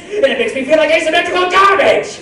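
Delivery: high, loud anime voice; high character voice. Acted. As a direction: shout it in a bright cartoon voice. Fan asks for character line.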